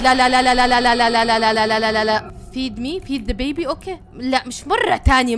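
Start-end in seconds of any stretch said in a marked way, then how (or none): 0.0-2.3 loud string of no, no, no; frantic refusal; panicked no. Real, not acted. Panicking at the baby. (ذعر عالي)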